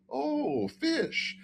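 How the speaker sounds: very high, light mock guard voice; imitating the guard. Airport guard holding up a flask, in a very high mock voice. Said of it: "and he goes".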